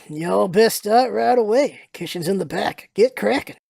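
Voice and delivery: slow Southern American drawl; Southern accent. Acted. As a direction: give orders as a Southerner. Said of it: "he starts being Southern".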